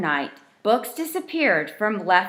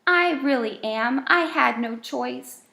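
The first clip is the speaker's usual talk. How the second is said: little voice; 4 semitones higher than usual. Acted. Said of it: "came a little voice".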